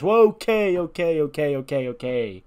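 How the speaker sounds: high, loud start stepping down to normal; alarmed interjection. Acted. Nese steps between father and son, urgently interrupting. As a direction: break it up with tumbling okays.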